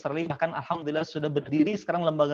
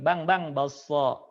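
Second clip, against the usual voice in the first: calling a vendor; 3 semitones lower, much slower than usual. Pretend. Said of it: "jangan bilang bakso lagi".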